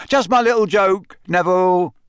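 grinning through the words; teasing joke. A narrator's reading. Fred teases choking Neville, high and playful. Fred laughing after prank.

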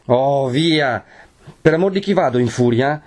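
high, rising challenge; exasperated warning. A narrator's reading. Renzo warns against backing out, exasperated. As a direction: warn her with mounting impatience.

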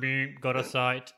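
slow, laughing robot voice. Pretend. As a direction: play the robot, stiff and slow. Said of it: "I don't like my robot voice".

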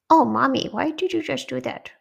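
high, loud put-on child voice; high little character, put out; indignant character voice. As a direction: squeal a protest at mommy. Character scolds her mommy.

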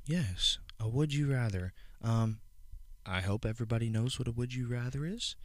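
exaggerated cartoon intonation. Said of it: "Why are you talking like that?".

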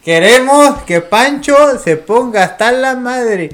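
egging a buddy on to drink; frat bro cheer. Real, not acted.

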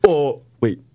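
high disgusted squeals; disgusted shriek. Real, not acted. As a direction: recoil from the picture. Reacting to possum pictures.

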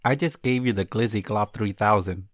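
lightly voiced woman's tone; a hint of a girl voice. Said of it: "my girl voice".

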